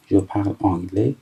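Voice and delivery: reading each French word out slowly. Shown as a demonstration. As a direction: read it slowly for the class. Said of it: "من به این صورت شروع کردم".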